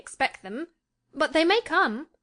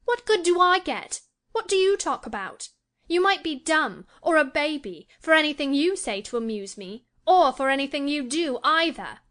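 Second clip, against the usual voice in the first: put-on much higher, louder irritated girl; growing irritated; 6 semitones higher, 3 dB louder than usual. A narrator's reading. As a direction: scold him, exasperated. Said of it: "growing more irritated".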